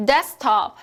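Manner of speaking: "데스크탑" repeated as des-top; middle sound dropped. Shown as a demonstration. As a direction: say "데스크탑" with the K silent. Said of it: "중간음을 제외해서". ("데스크탑"을 데스탑으로, 크는 생략)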